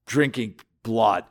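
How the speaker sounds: a hint of indignant, scandalized townsfolk; lightly voiced outrage, pitch jumping up in protest; mock-shocked grumbling among themselves; quarreling crowd. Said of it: "he's hearing them quarreling among themselves".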